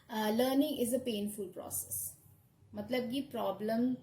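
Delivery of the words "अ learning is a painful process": quoting a film line. Retold or imitated. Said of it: "Lucy एक dialogue बोलती है".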